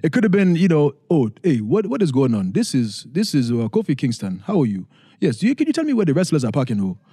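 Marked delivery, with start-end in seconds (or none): 1.1-7.0 light African-accented voice imitating his parents; a touch of an African accent, friendly and curious; African-esque accent. To drive-thru staff, a mild African accent. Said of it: "a little African-esque accent".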